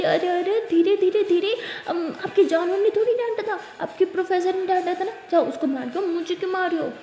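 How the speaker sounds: loud, giggling pleas to stop; laughing protest. Acted. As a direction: beg her to stop through laughter. Ishani being playfully slapped.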